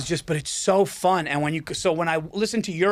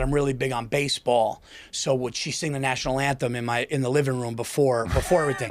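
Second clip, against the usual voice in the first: changed voice; 5 semitones lower than usual. Retold or imitated. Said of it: "I changed my voice".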